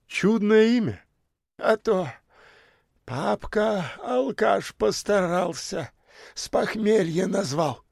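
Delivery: высоко, медленно и тише; расскажи с ухмылкой; простецкая бомжиха. A narrator's reading. Бомжиха о папке. (бомжиха объясняет даме своё имя, простецки)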